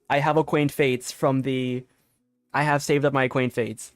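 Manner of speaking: usual speaking voice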